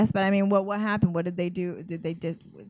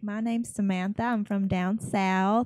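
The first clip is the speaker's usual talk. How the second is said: light Southern accent demo; slow into a Southern drawl at the end; slower than usual. Shown as a demonstration. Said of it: "I like doing a Southern accent".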